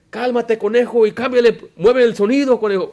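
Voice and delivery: imitated angry yell. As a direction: bark "conejo" at him like a bully. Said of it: "Le empezó a gritar". (imitando a un predicador gritando, más agudo y fuerte)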